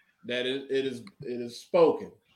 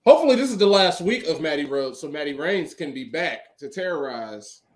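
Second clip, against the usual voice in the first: hyped promo; 6 dB louder than usual. Pretend. Wrestler promo boast.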